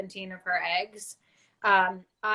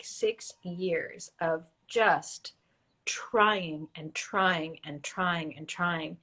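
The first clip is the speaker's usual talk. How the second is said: slow weary whisper; 3 semitones lower, much slower than usual. Real, not acted. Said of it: "I let go of".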